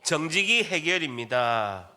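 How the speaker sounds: slow, measured slogan for repeating; leading a repeat-after-me. Shown as a demonstration. Preacher has the congregation repeat a slogan, slow and measured. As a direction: say it slowly so they can follow. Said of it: "저를 따라합니다".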